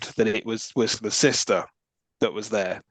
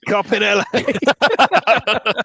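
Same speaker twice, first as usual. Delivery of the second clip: sarcastic aside; 8 semitones higher, 6 dB louder, much slower than usual. Real, not acted. Sarcastic jab at the film.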